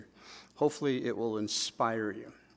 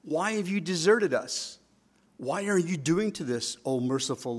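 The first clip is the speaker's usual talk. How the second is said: aggrieved questions, pitched up then dropping on the challenge; complaining. Acted. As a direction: protest like an abandoned people pleading. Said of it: "they're complaining like".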